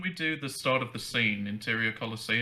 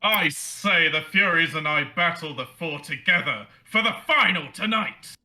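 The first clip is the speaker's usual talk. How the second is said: Hercules as a barbarian, pitched up high; big bold barbarian, voice pushed higher; 3 semitones higher, 4 dB louder than usual. Acted. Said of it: "your high-pitched Herc-, or barbarian voice".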